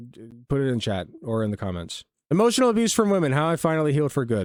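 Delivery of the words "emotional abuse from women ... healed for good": fast re-read title. Shown as a demonstration. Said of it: "this is called Emotional Abuse".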